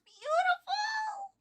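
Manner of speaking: breathless whisper of awe. Real, not acted. Gushing about Red Hood comics.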